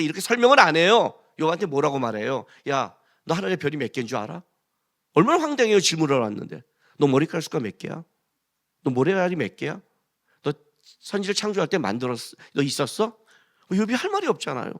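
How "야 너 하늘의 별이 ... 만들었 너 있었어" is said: a hint of God putting Job in his place; God questioning Job. (욥을 꾸짖는 하나님, 낮고 조용하게)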